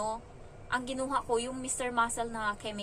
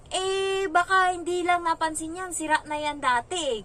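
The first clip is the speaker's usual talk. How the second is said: put-on higher, louder kid's voice brushing off blame; child making excuses; 7 semitones higher, 6 dB louder than usual. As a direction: play the child covering up. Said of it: "sabi niya". (batang nagdadahilan, mas mataas at malakas)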